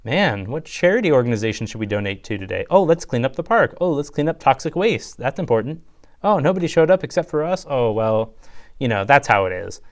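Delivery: lightly voiced preachy do-gooder, pitch jumping up on the Oh lines; mock goody-goody heroes. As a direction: chirp it like an eager model citizen, a hammed-up touch. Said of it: "But it was like".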